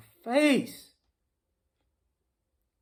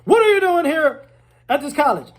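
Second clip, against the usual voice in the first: suspicious questioner; 7 semitones higher, 6 dB louder than usual. Retold or imitated. Acting suspicious campus questioner.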